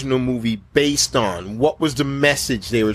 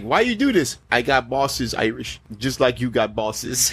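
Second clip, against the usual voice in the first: put-on Somali pirate accent. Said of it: "He's like".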